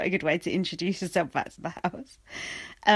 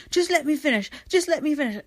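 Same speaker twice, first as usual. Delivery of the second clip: mimicking James Jordan; 6 semitones higher than usual. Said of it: "James Jordan's just going".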